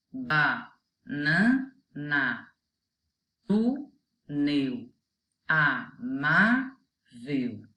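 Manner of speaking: each word drawn out slowly, syllable by syllable; slow example words. Shown as a demonstration. Teacher reading examples to children, slow and clear. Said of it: "Outros exemplos".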